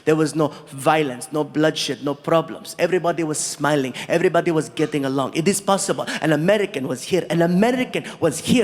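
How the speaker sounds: low, earnest, formal prince; low and stately, lifting gradually towards the end; prince's voice. Retold or imitated. Prince telling the comic how big this is, low and earnest. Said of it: "He's like".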